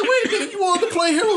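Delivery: high, laughing mockery; mock him through giggles; teasing through laughter; laughing tease. Teasing friend in retelling.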